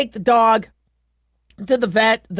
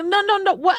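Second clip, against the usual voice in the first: high, alarmed no, no, no; 8 semitones higher than usual. Retold or imitated. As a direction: stop her in shock, pitched high. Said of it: "I, I go".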